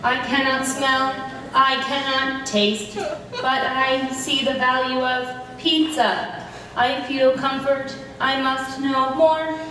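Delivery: flat monotone robot voice; even robotic drone. Acted. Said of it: "You're a giant robot death machine".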